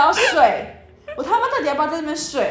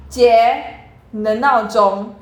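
firm call; 4 dB louder, much slower than usual. Retold or imitated. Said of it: "我就起来说".

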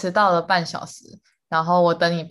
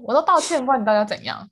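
mimicking annoyed partner; 2 semitones higher than usual. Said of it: "他是说".

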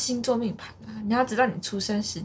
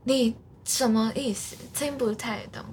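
put-on Japanese accent. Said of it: "日本人讲话就是".

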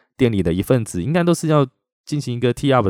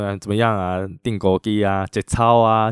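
mock Cantonese challenge. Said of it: "节操的就是广东话的单挑的意思啊".

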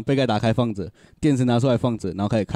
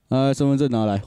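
rude attitude. Retold or imitated. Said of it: "就是这种态度".

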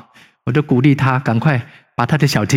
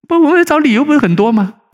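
raised, louder preaching voice; fervent preaching; 4 dB louder than usual. Acted. Pastor warns the congregation against delay, preaching higher and louder. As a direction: drive the warning home from the pulpit. Rhetorical challenge.

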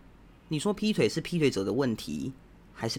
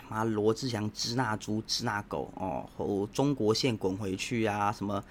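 a hint of a sneering netizen rant; mocking angry netizen; 2 semitones lower than usual. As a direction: lightly mimic an online troll cursing. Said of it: "很多人会骂啊".

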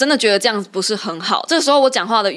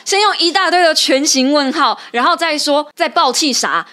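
heated; 6 semitones higher than usual. Real, not acted. Host retelling the member's question-mark reply to co-host, heated. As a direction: fire it off, still worked up.

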